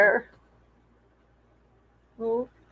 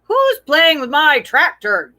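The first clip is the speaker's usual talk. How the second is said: yelled; 4 semitones higher, 4 dB louder than usual. Acted. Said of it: "yelled the farmer".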